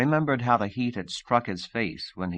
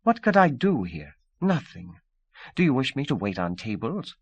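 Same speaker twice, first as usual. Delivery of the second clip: higher, proud indignant retort; imperious; 5 semitones higher than usual. Acted. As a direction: toss it back, imperious. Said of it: "angry and imperious".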